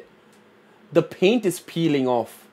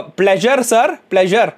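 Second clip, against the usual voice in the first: put-on higher-pitched Indian accent for immigration; 4 semitones higher, slower than usual. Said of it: "did you hear his Indian accent".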